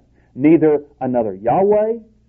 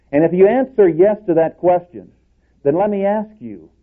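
higher and louder, pressing the question; rising preacher's challenge; 6 semitones higher, 5 dB louder than usual. Real, not acted. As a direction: build toward the challenge.

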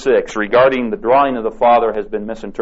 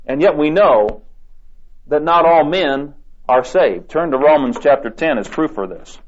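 normal talking voice

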